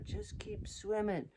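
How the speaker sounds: high-pitched cartoon fish pep talk; lilting, high-voiced repeated refrain; Dory the fish. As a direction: chant it high, like a cheerful self-motivating mantra. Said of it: "all I kept thinking about was Dory the fish".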